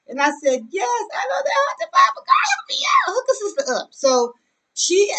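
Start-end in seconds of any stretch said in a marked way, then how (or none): 0.7-3.9 high, loud, whiny begging; mock pleading. Begging her friend to find the bag, high whiny plea. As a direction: squeal it out like a desperate plea.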